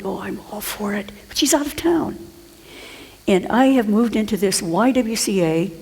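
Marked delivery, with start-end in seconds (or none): 0.0-2.2 hushed, breathy-free whisper of a retold secret; light retold whisper; whispered aside. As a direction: whisper it like sharing gossip.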